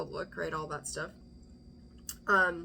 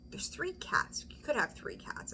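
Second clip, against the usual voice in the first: whisper; 7 semitones higher than usual. Acted. Whispered aside about cats.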